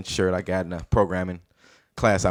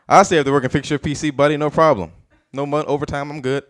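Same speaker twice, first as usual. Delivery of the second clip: lightly voiced nerd, pitched higher; a hint of an eager-to-help nerd; 4 semitones higher than usual. Comic shows himself with glasses on as a nerd, lightly voiced nerd. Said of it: "All right, nerd".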